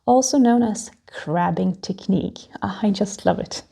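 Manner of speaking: hammy stage actor whispering; theatrical voice. Shown as a demonstration. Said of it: "That's why I'm using the special theatrical voice".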